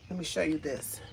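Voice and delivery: soft whisper, a little secret. Real, not acted. Shows plant secretly.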